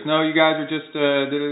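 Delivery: mock neighbor. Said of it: "and she goes".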